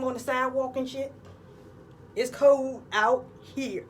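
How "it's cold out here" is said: slow emphasis. Real, not acted. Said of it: "Make sure y'all wrap".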